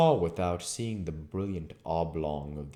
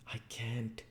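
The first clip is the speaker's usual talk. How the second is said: low voice; 6 semitones higher, 8 dB quieter than usual. Acted. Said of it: "his low voice".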